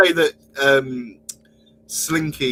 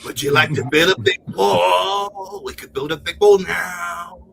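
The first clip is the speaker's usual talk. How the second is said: loud, drawn-out and higher; wall-builder impression; 3 semitones higher, 5 dB louder than usual. One joker to another about building a wall, hammed-up impression. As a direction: call it out, stretching each phrase.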